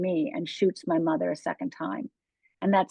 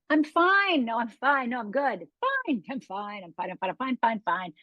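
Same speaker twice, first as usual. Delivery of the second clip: put-on "outside" self; 3 semitones higher than usual. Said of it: "The outside Rhonda".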